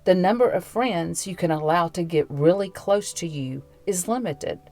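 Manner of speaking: calm, even reading voice with music; devotional reading. Acted. Host reading a devotional to listeners over music, calm. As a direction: read it gently to listeners.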